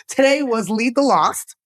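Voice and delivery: said through a light laugh; quick, amused, tossed off. Real, not acted. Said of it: "what was it?".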